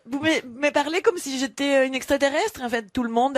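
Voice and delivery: indignant protest. Real, not acted. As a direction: protest loudly and high, indignant. Protesting over laughter.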